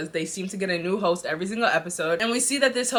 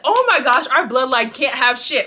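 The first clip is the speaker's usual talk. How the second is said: loud, higher exasperated cry; exasperated outburst; 4 semitones higher, 7 dB louder, slower than usual. Retold or imitated. Brother ranting that his family can't catch a break, loud and exasperated. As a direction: throw up your hands at bad luck.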